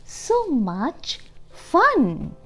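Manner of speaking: put-on lively reading to young children; storybook read-aloud. A narrator's reading. Teacher reading Pete the Cat to the class, lively read-aloud. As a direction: read it like a picture book to kids.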